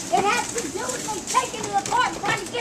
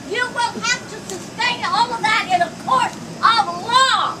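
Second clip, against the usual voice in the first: raised angry voice; screaming. Real, not acted. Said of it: "Why are you screaming?".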